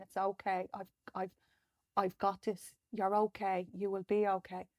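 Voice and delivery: soft, choked-up reassurance to herself; quietly emotional, consoling herself; emotional self-comfort. Real, not acted. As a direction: hold yourself and whisper-soft comfort, near tears. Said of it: "I'm getting a bit emotional".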